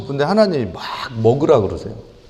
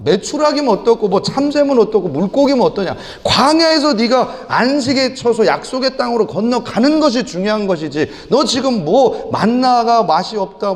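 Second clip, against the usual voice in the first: high, forceful preacher's scolding; God scolding a complaining believer, higher and forceful; scolding rebuke; 7 semitones higher than usual. Retold or imitated. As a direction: berate a grumbler from the pulpit.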